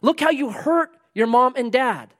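high, drawn-out confrontation; strong rebuke. Acted. Preacher voicing Jesus trying to break through, strong rebuke. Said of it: "say things real loud and real strong".

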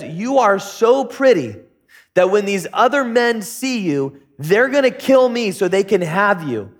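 mildly worried, emphatic warning to his wife; serious worry. Acted. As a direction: stretch the opening, then press the danger earnestly. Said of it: "he's serious".

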